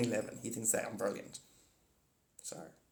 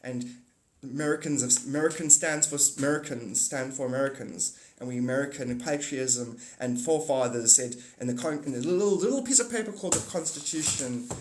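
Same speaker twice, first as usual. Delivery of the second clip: mock politician; 2 semitones lower than usual. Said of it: "a guy who says".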